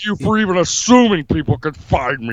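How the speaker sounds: hammed-up tough-guy politician impression; comic strongman bluster; Jesse Ventura. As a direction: declare it like a blustering off-grid candidate. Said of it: "Jesse, why do you live in Mexico".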